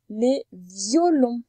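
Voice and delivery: "violons" very slow and stretched; syllable demonstration. Shown as a demonstration. Teacher shows the first syllable, "violons" slow and drawn out. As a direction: linger on the opening sound of "violons". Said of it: "on l'entend dans la première syllabe".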